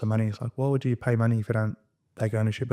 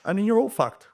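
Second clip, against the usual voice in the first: defiant threat; 8 semitones higher than usual. Retold or imitated. Lenny daring the lawyers with the Supreme Court, triumphant. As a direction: taunt them with a jury trial. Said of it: "I go".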